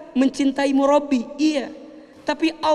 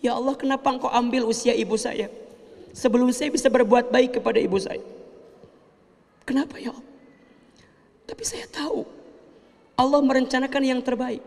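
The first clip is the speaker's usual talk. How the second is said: quick, hushed pleading that settles into acceptance; sorrowful plea; faster than usual. Retold or imitated. Orphaned son prays sadly but accepts his mother's death. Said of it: "Kalau boleh marah".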